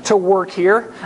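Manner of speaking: acted gush of excitement; mock amazement. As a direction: play an interviewer delighted by enthusiasm. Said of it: "the person on the other side is just gonna be like".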